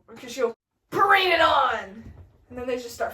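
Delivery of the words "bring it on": slow, stretched-out battle yell; hammed-up rallying cry; Mercutio's battle cry. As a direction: holler the challenge, drawing out the last word.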